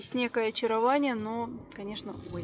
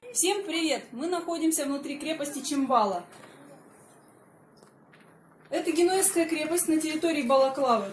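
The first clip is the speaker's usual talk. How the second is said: a lightly louder presenter read to camera; vlog presenter; 4 dB louder than usual. Acted. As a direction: introduce the fortress like a tour guide. Presents the fortress to viewers.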